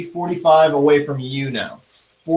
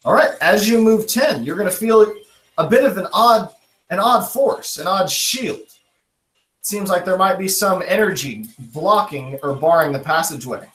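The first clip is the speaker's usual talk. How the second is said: higher-pitched, animated scene setting; game master narration; 4 semitones higher than usual. Acted. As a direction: build suspense as game master.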